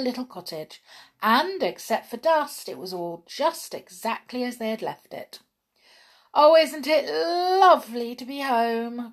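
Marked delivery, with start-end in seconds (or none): 6.4-9.1 higher, louder delighted cry; overjoyed brownie crying out; cried with joy. A narrator's reading. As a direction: burst out happy to be home. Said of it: "cried Hop".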